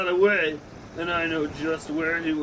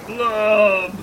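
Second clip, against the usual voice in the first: heroic shout; 3 semitones higher, 6 dB louder than usual. Acted. Hero shouts his own name.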